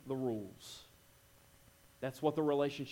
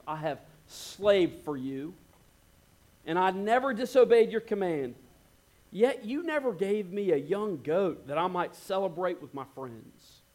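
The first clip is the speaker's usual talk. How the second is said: resentful; 2 semitones higher, 4 dB louder than usual. Retold or imitated. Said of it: "Listen to the tone".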